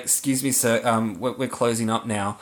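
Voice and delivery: nice, apologetic. Retold or imitated. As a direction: lightly imitate a kind man hating to interrupt. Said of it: "the guy so nicely says".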